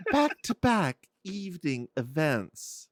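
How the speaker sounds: slow, savoring the phrase through a laugh; laughing repeat. Real, not acted. Host repeats her cohost's phrase slowly while laughing. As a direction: relish the phrase while cracking up.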